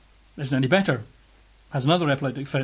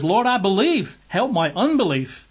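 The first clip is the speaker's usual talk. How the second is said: tearful cry; 6 semitones higher than usual. A narrator's reading. Desperate father pleading with Jesus for his son, tearful cry. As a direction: cry it out, begging. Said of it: "cried out and said with tears".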